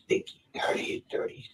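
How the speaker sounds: breathy whispered chant; whispering. Retold or imitated. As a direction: whisper it, barely voiced. Retold words after the killing.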